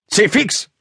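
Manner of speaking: snorting. Acted. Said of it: "Schnaubte Toni".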